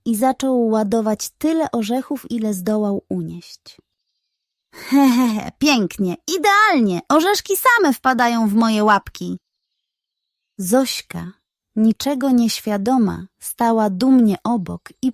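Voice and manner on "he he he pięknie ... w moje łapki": gleeful chuckle. Acted. Budyń gloats stealing nuts.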